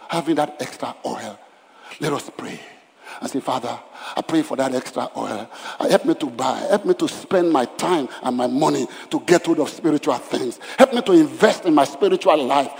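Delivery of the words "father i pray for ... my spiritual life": building fervent prayer; led prayer. Acted. Pastor leading the church in prayer, building fervently. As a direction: pray it, rising in fervor.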